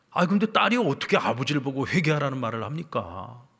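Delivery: normal talking voice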